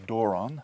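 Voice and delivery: "doron" stressed on the first syllable, DO-ron, with a rising end; teacher demo of "doron"; Greek word doron. Shown as a demonstration. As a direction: model "doron" for the class. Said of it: "Word for gift".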